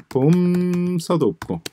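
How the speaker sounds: ordinary delivery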